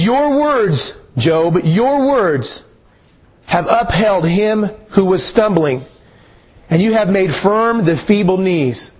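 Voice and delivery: slow, measured scripture reading. Shown as a demonstration. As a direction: read the verse slowly, letting each phrase land. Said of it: "Look at that one more time".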